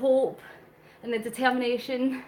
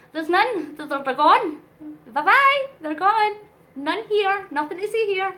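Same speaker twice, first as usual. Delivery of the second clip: playful teasing; 6 semitones higher, 6 dB louder than usual. Acted. Playfully shooing away the cat.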